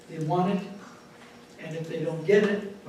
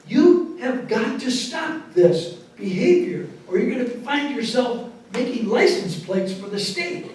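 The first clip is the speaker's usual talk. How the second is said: slow, louder stern warning to a son; a mother laying down the law, slowly; 5 semitones higher, 4 dB louder than usual. Retold or imitated. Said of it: "the woman is saying".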